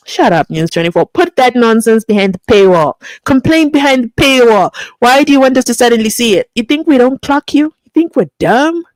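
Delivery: loud indignant telling-off; scolding. Real, not acted. Vlogger scolding News24 for its paywall, loud and indignant.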